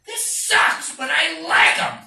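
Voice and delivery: high-pitched, loud reluctant admission; torn, excited protest. Retold or imitated. Kid metal fan watching a singer's karate moves, loudly conflicted. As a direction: cry it out against your will. Acting his torn younger self.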